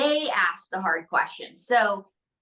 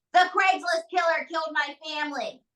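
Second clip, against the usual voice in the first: imitating an upset heckler, high-pitched; mock outcry, pitched up without extra volume; retold outburst; 6 semitones higher than usual. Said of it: "woman stands up and goes".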